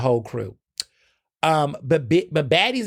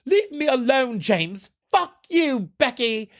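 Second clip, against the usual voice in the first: imagined reality-show fight; 10 semitones higher, slower than usual. Pretend. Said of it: "Could you imagine that?".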